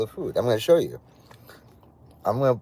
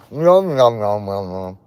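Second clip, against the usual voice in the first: chewing noises; slower than usual. Shown as a demonstration. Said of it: "and I'm complaining".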